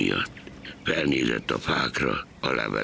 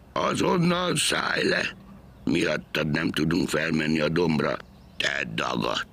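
angry shout; 6 semitones higher than usual. A narrator's reading. Engine driver yells at the stowaway, angry. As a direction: order the stowaway off. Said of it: "egy potyautas".

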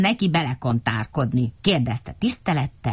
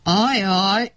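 groan; 3 semitones higher than usual. A narrator's reading. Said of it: "nyögött fel Medve Medárd".

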